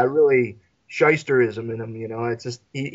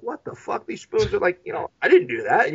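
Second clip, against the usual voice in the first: stunned confusion; 5 semitones higher than usual. Retold or imitated. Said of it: "He's looking at them like".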